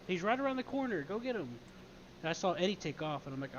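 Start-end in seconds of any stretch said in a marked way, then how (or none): 0.1-1.5 retold yell. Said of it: "and I yelled at Eddie".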